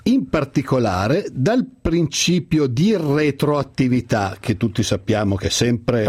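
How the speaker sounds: slow solemn declamation of legal text; theatrical swelling poetry reading. Acted. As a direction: recite it like a school Christmas poem. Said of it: "mi sono preparato due o tre brani da declamare".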